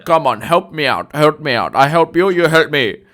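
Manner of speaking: put-on loud, high, wheedling Indian accent. Buyer begging agent for help with cash deal, Indian accent. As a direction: press for a favour in an exaggerated Indian accent. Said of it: "spot on impression".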